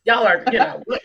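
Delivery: mock incredulous man, laughing through it; loud amused disbelief, voiced as him; a guy baffled by crying strangers, mock scolding; imitating the guy. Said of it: "He was like".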